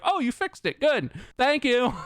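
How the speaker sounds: high, singsong brush-off voice; mock gratitude. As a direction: imitate a falsely pleased company rep. Mocking company's brush-off reply.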